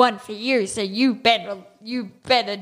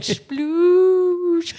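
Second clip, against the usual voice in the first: splash sound; 8 semitones higher, 3 dB louder than usual. Pretend. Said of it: "how are you talking underwater".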